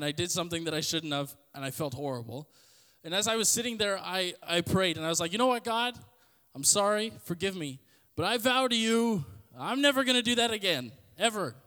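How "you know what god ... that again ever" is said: retold earnest prayer, higher and louder; emphatic vow. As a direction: vow it fervently, re-enacting a past prayer. Retelling his emphatic vow in prayer.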